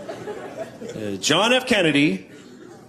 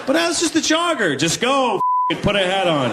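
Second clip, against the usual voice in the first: lightly excited; 9 semitones higher than usual. Retold or imitated. God recasting him.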